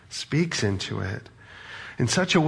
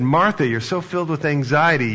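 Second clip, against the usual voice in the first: a touch of scolding, higher and pushed; judgmental tone; 4 semitones higher, 5 dB louder than usual. Shown as a demonstration. Preacher demoing a judging Jesus scolding Martha, mildly sharp. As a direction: say her name like a mild rebuke. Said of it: "you would hear it in a different tone".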